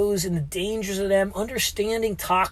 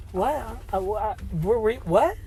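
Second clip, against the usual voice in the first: retold surprise; 3 semitones higher than usual. Stunned reaction to odd question.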